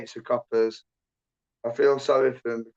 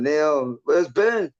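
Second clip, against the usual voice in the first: calling out; 3 semitones higher, 4 dB louder, much slower than usual. Real, not acted. Calling out on stream.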